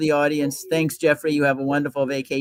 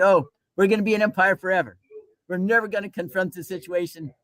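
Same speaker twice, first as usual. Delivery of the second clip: lightly mocked retort, pitched up; retold boast with a raised pitch; acted dismissal; 6 semitones higher than usual. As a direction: brush off the warning in a higher voice. Acted Athenians dismissing the warning.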